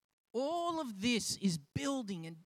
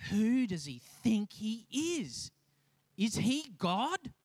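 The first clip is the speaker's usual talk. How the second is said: mock indignation; slower than usual. Pharisees going off their dial at Jesus, mock indignant. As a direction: draw out the outraged question, lightly hammed-up. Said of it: "The Pharisees just go off their dial".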